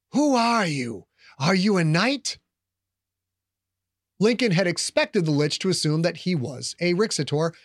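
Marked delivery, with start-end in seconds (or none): 0.1-2.4 ancient rasping undead king. Acted. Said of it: "the Lich said".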